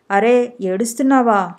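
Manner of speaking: ordinary delivery, nothing marked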